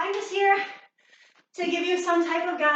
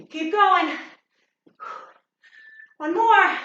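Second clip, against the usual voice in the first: coach urging; 3 semitones higher, 5 dB louder, much slower than usual. Real, not acted. Fitness coach urging class in last seconds, loud. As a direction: drive them through the final rep.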